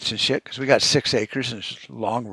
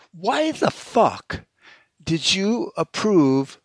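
exasperated demand; 5 semitones higher, much slower than usual. Retold or imitated. Ranting at city council members.

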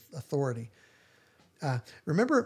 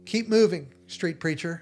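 dismissive guard; 2 semitones higher, 6 dB louder than usual. Retold or imitated. Roman Gaius shooing away the street preacher, scornful loud brush-off. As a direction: wave the preacher along with contempt.

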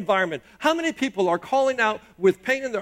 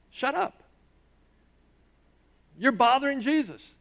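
crowd hushing; 5 semitones higher than usual. Retold or imitated. Crowd hushing the blind men.

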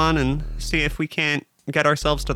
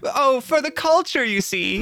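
posh fancy voice; 9 semitones higher than usual. Acted. Player answers in fancy voice.

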